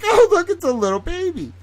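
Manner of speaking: put-on high sing-song greeting to a baby; baby talk. Cooing at nephew.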